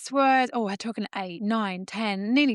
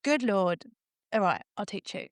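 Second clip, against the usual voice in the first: mock exasperated sigh. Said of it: "an eye roll".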